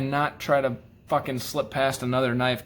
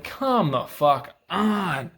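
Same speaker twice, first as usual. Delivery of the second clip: exasperated; 3 semitones higher, much slower than usual. Retold or imitated. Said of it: "And you're like".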